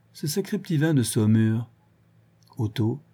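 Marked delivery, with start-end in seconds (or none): 0.1-1.7 "Ce sacré petit vin de Saumur" said drowsily, "sacré" leaned on, a hint of tipsiness; drowsy tipsy excuse. Vorski to Otto, sleepily blaming the wine. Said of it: "la marche mal assurée".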